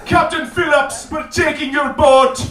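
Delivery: slow, high mock Jamaican accent; hammed-up Jamaican TV psychic making a threat; drawn-out, projected Jamaican accent; Miss Cleo. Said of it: "I really mean Miss Cleo".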